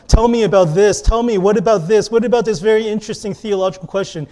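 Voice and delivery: quick-fire mock questions; eager callers. Radio callers firing theological questions at the host, brisk and eager. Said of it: "It went from".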